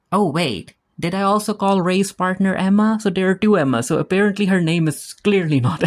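oh wait, it just dawned on her; sudden realization. Real, not acted. Recapper catching her own name mix-up, surprised. Realizes she mixed up names.

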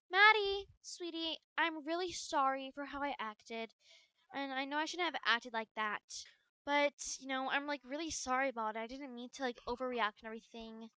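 mother making amends quietly; gentle apology. Acted. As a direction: apologize softly.

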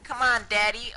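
hype cheering. Real, not acted. Cheering teammate on.

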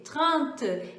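"trente" again, short with a falling tune and nasal vowel; French trente repeated. Shown as a demonstration. Teacher repeats thirty in French for students. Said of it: "Vou repetir".

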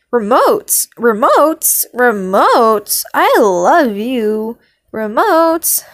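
loud, swooping excited repeats; excited gushing. Real, not acted. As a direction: gush over a favourite. Gushing over favourite character.

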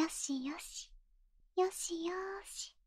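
slow, breathy unvoiced hush; soothing whisper. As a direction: coo it like soothing a baby. 頭を撫でてあやす. (赤ちゃんをあやす囁き)

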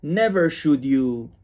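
"Never" stretched and slow, hit hard; strong emphasis on Never. Shown as a demonstration. Teacher shows pupils the strong Never, slow and emphatic. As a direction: lean hard on "Never", slowly.

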